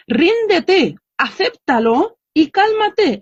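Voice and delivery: high-pitched, insistent retold plea; emphatic urging. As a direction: urge an exasperated mother to let go. Teacher urging mothers to give up. (exhortación insistente, en tono agudo)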